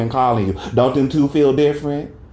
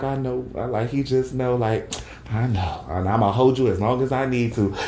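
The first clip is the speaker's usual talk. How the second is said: comforting father; 4 dB quieter than usual. Retold or imitated. Voices dad comforting crying son.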